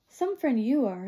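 snarled. Acted. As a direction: spit it out resentfully, slowly. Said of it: "I snarled".

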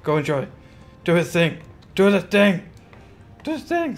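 playful announcer rising to a squeal on thing; mock excited announcement. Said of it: "we'll just say".

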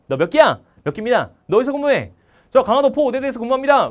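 loud, high rapid-fire questioning and reporting; barked military exchange. Acted. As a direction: act out drilled marines shouting back and forth. Acted senior-junior marine military interrogation. (큰 소리로 군대식 문답)

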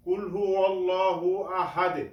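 আহাদে with the final D bounced after the verse; qalqalah echo. Shown as a demonstration. Teacher models the whole verse, qalqalah bounce. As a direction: end on a rebounding D in আহাদে. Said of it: "এটা হলো কলকলা".

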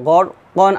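"গড় কন" ending on a clear n; "গড় কন", short vowel closed by n; written form with tanween. Shown as a demonstration. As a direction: say "কন" with the closing n sounded. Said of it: "এখানে যদি আমরা ওয়াকফ ধরি".

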